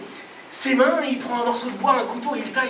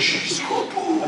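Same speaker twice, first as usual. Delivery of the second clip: laughing; 8 semitones higher, much slower than usual. A narrator's reading. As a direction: giggle it out, slow and light. Dream ends in bliss.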